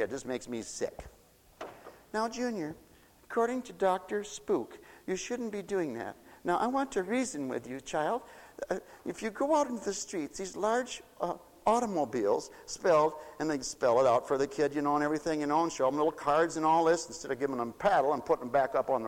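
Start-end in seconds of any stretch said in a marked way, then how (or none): 2.1-13.1 softer, overly patient mock reasoning with a toddler; mock child psychologist. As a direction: gently lecture the child, a little mocking. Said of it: "people psychoanalyze a two-year-old kid".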